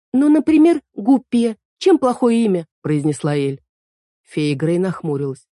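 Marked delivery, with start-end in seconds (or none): 0.1-2.7 put-on high, loud eager girl; girl Эль voice. A narrator's reading. Эль suggests Гуппе, high and loud. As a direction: pitch it up, offering the name eagerly.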